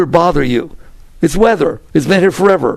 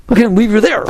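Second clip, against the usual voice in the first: wondering awe; 5 semitones higher, faster than usual. Retold or imitated. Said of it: "looks out at the world and says".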